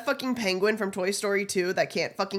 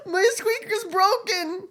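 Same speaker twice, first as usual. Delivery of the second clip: slow, higher mock-sad whine; mock whimper; 8 semitones higher than usual. Streamer mock-mourns her broken squeak, whining slowly. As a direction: fake pitiful complaint.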